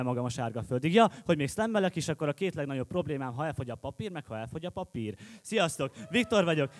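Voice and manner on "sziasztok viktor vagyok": brisk, projected slam-poet greeting; declaimed introduction. Acted. Slam poet introduces himself again to the audience, projected. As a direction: announce yourself to the whole room. Same greeting restarts the piece forcefully.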